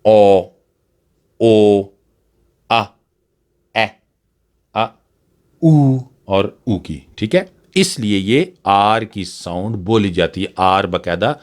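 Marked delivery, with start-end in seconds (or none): 5.6-6.0 slow vowel demo. Shown as a demonstration. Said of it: "vowel sounds आ रही हैं".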